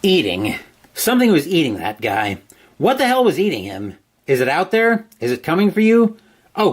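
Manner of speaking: dramatic, dread-filled narration swinging in pitch; panicked inner voice. A narrator's reading. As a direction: narrate spiralling, obsessive dread. Narrates the reader's panicked thoughts.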